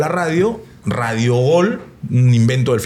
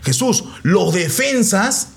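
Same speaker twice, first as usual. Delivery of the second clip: coach giving instructions; 4 semitones higher, slower than usual. Retold or imitated. Coach voiced in retold story.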